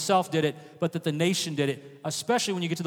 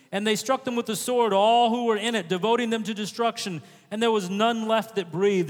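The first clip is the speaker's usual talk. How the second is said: scripture reading aloud; 3 semitones higher than usual. Acted. Reads the Bible passage aloud.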